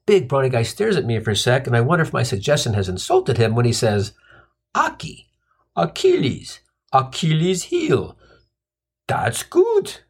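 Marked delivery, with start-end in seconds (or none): 4.7-10.0 big guy getting it. Acted. Big guy slowly gets the joke.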